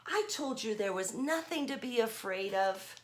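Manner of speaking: lightly voiced Grover reassuring. Grover telling the children there was nothing to fear. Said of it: "And it says".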